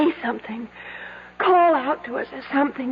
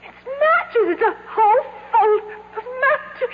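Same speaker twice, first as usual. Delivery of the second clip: laughing relief; 8 semitones higher than usual. Acted. Finding matches, laughing relief.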